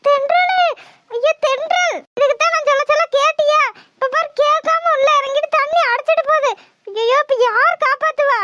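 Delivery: panicked. Acted. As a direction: fret aloud as a friend is swept away. Friend being swept away in river.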